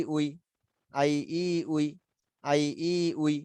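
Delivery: "আই, ই, উই" with the middle "ই" held long; lengthened madd. Shown as a demonstration. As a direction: drill "আই, ই, উই" evenly, stretching the "ই". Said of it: "এজন্য উচ্চারণটা একটু লম্বা হয়ে যাবে". ("আই, ই, উই"-এ "ই" একটু লম্বা করে টেনে)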